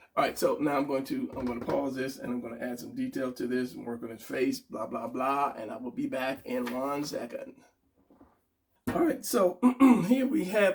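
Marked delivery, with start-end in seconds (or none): 9.0-10.8 voice cracking and breaking mid-phrase, pitched up. Back from adding detail to the face, presenting the final product, voice cracking. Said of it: "my voice just cracked".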